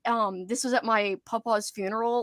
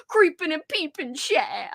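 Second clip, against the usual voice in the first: put-on Cajun accent; 5 semitones higher than usual. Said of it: "it'd probably be something like".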